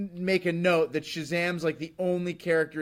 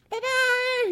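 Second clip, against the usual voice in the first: playful bye-bye. Pretend. Kid vanishing on saying Shazam.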